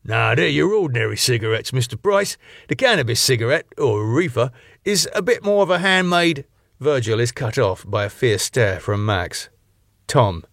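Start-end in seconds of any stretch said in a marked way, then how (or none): 0.1-6.4 a hint of a cheery know-it-all; lightly voiced helpful doorman; chatty doorman.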